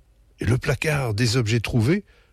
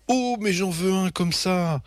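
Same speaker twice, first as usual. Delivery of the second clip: swooning; 9 semitones higher than usual. A narrator's reading. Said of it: "maman tombe en émoi".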